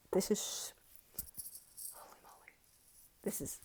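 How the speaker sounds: whispered, almost silent; awed whisper. Real, not acted. Vlogger overwhelmed by her savings, hushed whisper. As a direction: breathe it out in awe.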